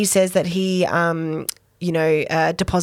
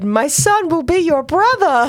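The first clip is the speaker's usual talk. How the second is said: solemn; 8 semitones higher than usual. Retold or imitated. Quoting Charles.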